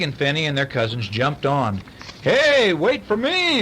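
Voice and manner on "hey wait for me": put-on boy calling to friends not to leave him. A narrator's reading. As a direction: call so they don't leave you behind. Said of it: "Herman called".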